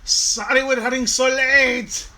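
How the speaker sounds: high, loud, drawn-out attempt at an Irish accent; bad Irish accent. Host voices a screaming banshee apologizing for lateness, bad Irish accent. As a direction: scream it slowly in a badly faked Irish accent. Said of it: "that's not an Irish accent".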